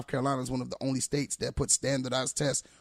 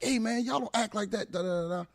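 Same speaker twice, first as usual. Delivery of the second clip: mock scolding yell, pitched up without real volume; retold yell; 8 semitones higher than usual. Teacher retells telling off the laughing kids, mock yell. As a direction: re-enact telling off a class, voice raised high. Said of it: "I had to yell at them".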